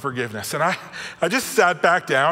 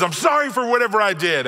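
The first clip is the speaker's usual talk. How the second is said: flippant sing-song apology; 5 semitones higher than usual. Retold or imitated. Boy marches up to his brother, careless singsong. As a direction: toss off the apology without meaning it. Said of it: "just kinda marches the other direction".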